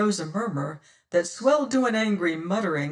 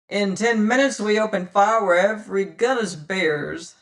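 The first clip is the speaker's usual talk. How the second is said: loud, higher ship's roar; loud roaring call; 3 semitones higher, 6 dB louder than usual. Acted. Godby threatening the pirates ashore, loud. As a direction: bellow the threat across the bay. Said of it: "roared Godby's great voice".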